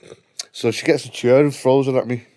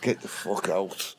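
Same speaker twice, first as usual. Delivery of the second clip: stern order; 4 semitones lower, 10 dB quieter, slower than usual. Retold or imitated. Ordering her out of burning house.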